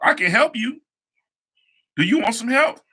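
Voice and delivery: high, sugary mock helpfulness; teasing offer. Offering the jealous classmate help, sugary and high. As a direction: kill her attitude with exaggerated sweetness.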